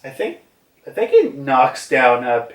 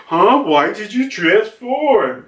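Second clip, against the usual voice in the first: high, baffled soldier voice; confused soldier; 7 semitones higher than usual. Retold or imitated. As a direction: ask in sudden confusion. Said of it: "the fire soldier like".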